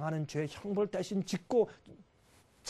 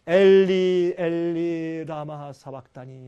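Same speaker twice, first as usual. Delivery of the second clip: crying out; 2 semitones lower, 6 dB louder, much slower than usual. Retold or imitated. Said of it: "크게 소리질러 가라사대".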